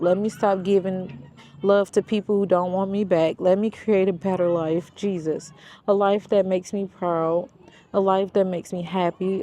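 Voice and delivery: rally the listener with each let me; inspirational reading. Acted. Reads the book's closing pages.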